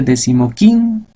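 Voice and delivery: "decimoquinto" with QUIN hit and held; stress on QUIN. Shown as a demonstration. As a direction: lean on "quin" in "decimoquinto", no accent on "de". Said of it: "el acento vendría en este".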